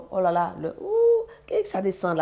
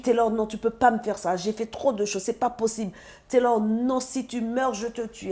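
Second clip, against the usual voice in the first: desperate plea; 6 semitones higher than usual. Retold or imitated. Mother begging her son not to die, retold desperate plea. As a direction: beg him not to die.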